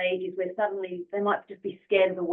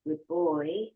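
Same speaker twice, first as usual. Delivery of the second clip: slow, soft praise for a sensitive dog; calm, softer praise to a puppy; gentle and soft; 5 dB quieter, slower than usual. Retold or imitated. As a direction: coo it gently and calmly. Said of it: "really gentle and soft".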